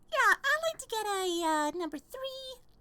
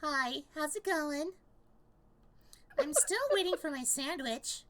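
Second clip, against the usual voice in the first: lightly voiced deadpan guy; lightly done celebrity impression on request; Patrick Warburton voice; 4 semitones lower than usual. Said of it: "Hey, bro, do your voice".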